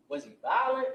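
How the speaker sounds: high, loud probing question; pressing officer. Retold or imitated. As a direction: push her like an eager cop.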